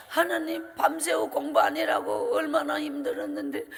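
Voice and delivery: tearful shouting plea; crying out to God. Retold or imitated. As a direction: cry out to God in anguish. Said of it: "제가 참 많이 울었는 것은".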